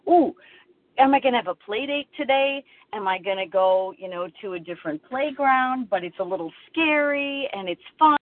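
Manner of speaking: a hint of a giddy ten-year-old; childlike excitement. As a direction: bounce through it like a kid before a play date. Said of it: "like I'm ten".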